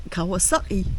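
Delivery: Kawasaki said the Geordie way, as in the northeast; lightly voiced Geordie Kawasaki; Geordie accent. Shown as a demonstration. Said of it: "They go like that".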